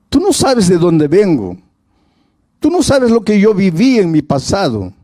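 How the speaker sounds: a woman pushing back hard on her suitor; insistent young woman. Retold or imitated. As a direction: her voice climbing as she protests.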